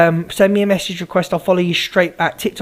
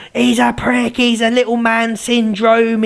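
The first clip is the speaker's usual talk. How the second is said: imitated jeer, pitched up and drawn out; mock jeering; 4 semitones higher, slower than usual. Streamer mimics a viewer turning on him, mock jeering. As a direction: mimic a critic's taunt in a higher voice. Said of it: "Two minutes later, you're going".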